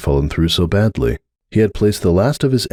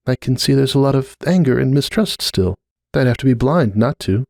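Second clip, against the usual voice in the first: put-on higher, uneasy young mare's voice; Cupcake, uneasy mare; 6 semitones higher than usual. Cupcake telling Starlight she feels the rift, higher uneasy voice. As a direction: gently admit discomfort, voice lifted.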